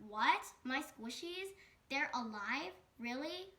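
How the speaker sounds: a loud startled what, then rising questions; shocked disbelief. Acted. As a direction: caught completely off guard. Mariah learns squishies are alive.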